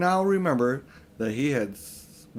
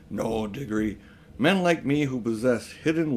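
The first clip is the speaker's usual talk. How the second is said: put-on pompous old uncle; 3 semitones higher than usual. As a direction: lecture the boy grandly, voice climbing. Uncle Andrew lecturing Diggory.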